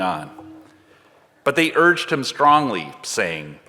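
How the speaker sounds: measured, unhurried Bible reading voice; scripture reading. Acted. Reader reading Luke to the congregation, measured and unhurried.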